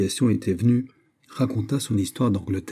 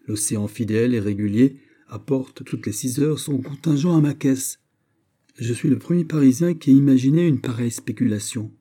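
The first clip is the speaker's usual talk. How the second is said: higher and louder, a salesman pitching a scheme; a boastful speculator talking up his deal; eager D'Artagnan; 4 semitones higher, 4 dB louder than usual. Acted. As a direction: sell the bargain with gusto.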